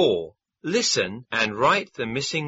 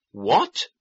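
shouted. A narrator's reading. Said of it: "shouted the tiger".

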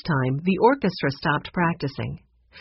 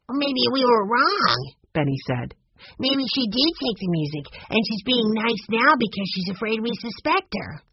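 put-on suspicious young boy; 4 semitones higher than usual. Benny voicing his suspicion.

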